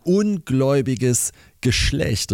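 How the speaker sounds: holy exasperation. Acted. Jesus called into the dilemma, holy exasperation. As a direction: draw it out with mild exasperation. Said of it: "heilig genervt".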